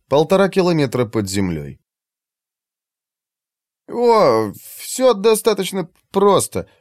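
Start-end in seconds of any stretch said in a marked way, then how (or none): 3.9-6.7 said with a smile, slow; light amused smile in the voice; smiling. Acted. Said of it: "улыбнувшись".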